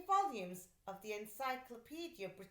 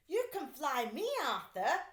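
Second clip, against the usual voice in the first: louder, calling across the park; 5 semitones higher, 7 dB louder than usual. Acted. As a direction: call him over eagerly. Calling to brother in windy park.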